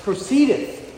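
scripture reading. Acted. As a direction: read the verses out like a preacher at the pulpit. Reads scripture aloud.

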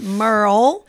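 usual speaking voice

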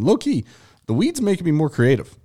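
high, loose and giggly; stoned. Real, not acted. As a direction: talk like you're high. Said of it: "I'm high right now".

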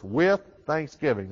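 "with" stressed, falling tune to the end. Shown as a demonstration. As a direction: lean on "with" before "thanksgiving.". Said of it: "Notice these words".

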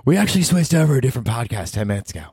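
high sarcastic listener voice; high snarky mock listener. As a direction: sneer as bored listeners. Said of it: "They're like".

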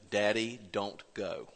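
put-on child pleading. Daughter pleading not to leave.

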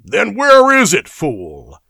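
loud high question, dropping on the insult; exclaiming. A narrator's reading. Dionis snapping at the guard, exclaiming impatiently. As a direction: demand it sharply, then drop to contempt. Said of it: "exclaimed Dionis".

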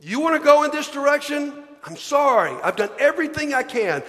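loud, pleading and fed up; God's exasperated voice. Acted. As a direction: plead loudly as a God who has run out of patience. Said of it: "God said".

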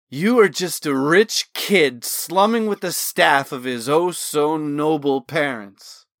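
loud, bitter spitting words, slowing on oh-so-noble; spat back. Acted. Drunk Riken sneering at Talon's noble family, spitting. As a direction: spit the insult at him. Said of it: "spat back".

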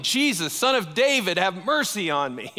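a blind beggar calling out over the crowd; retold yelling. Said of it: "this blind man starts yelling".

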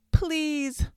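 high, loud drawn-out plea; wailing. A narrator's reading. Suffering fox begs the dentist, wailed. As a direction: wail it like someone begging. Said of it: "the fox wailed".

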